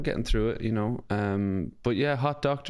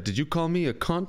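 mock outrage; 5 semitones higher than usual. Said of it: "And Jilsey said".

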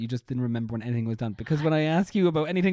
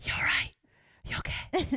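loud whisper; 11 semitones higher than usual. Shown as a demonstration. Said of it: "whisper really loud".

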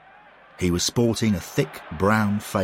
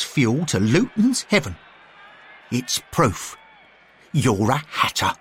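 put-on higher, firm accusing older man; stern Bill; 5 semitones higher, 3 dB louder than usual. A narrator's reading. Bill accuses McBain, a firm older man's voice. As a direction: lay out the charge sternly. Bill's voice.

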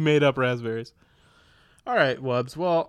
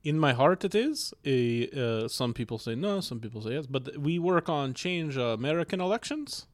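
put-on comic Russian accent; 4 dB quieter than usual. Shown as a demonstration. Guest introduces himself as the flatmate, mock Russian accent. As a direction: play a comrade in mock Russian. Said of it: "Russian accent".

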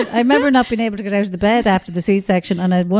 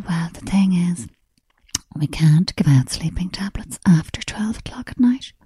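calm nun-like nurse; 3 semitones lower than usual. Retold or imitated. Calm nurse refusing, whispered.

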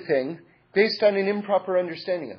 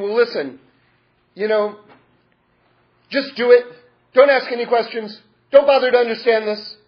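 brushing off questions, louder and higher; dismissive mock voice; 4 semitones higher, 5 dB louder than usual. Speaker mocks a just-do-it demand, dismissive. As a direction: wave away every question. Mocking a just-obey-me attitude.

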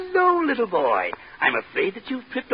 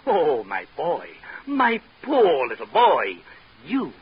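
mock grave; 5 semitones lower, slower than usual. Mock doctor delivers grave diagnosis.

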